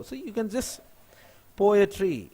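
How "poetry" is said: "poetry" in three distinct beats, "po... e... tree"; split into syllables. Shown as a demonstration. Teacher demonstrates a three-syllable word, "po-e-try" beat by beat. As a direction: separate each syllable of "poetry". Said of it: "This is three syllable".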